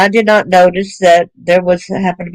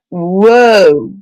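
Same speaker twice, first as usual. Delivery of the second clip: long drawn-out stunned "whoa"; retold shock. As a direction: stretch it out in disbelief. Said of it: "and I was shocked".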